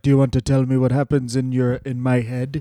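low, quick wrestler impression; lightly voiced low-pitched wrestler; Jimmy Snuka. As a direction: put on a low rambling voice. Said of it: "Jimmy Snooker was like".

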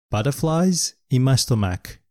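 slow, clear phrase for learners; slow model phrase. Shown as a demonstration. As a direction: say it slowly for students to copy. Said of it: "というフレーズがあります". (ゆっくりお手本の発音)

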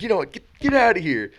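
imitating the umpire throwing him out; umpire ejecting. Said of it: "he's like".

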